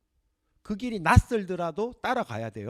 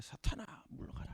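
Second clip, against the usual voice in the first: 사탄아 물러가라 whispered; whispered stern rebuke; 3 semitones lower, 11 dB quieter than usual. Acted. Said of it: "이렇게 된 거예요".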